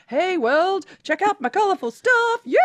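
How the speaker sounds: high-pitched playful showing off; big excited hammed-up shout-out; excited announcing. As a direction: call out to the world, high and gleeful. Playful announcing of colourful outfit.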